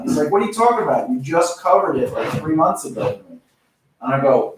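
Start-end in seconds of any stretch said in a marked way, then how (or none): 0.3-3.2 higher-pitched mock exasperated boss; lightly voiced disbelief; retold exasperation. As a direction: imitate a boss who can't believe it.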